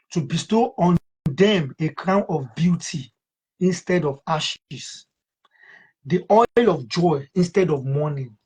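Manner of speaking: measured, solemn Bible reading; scripture reading. Acted. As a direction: read the verse with reverence. Reads scripture aloud.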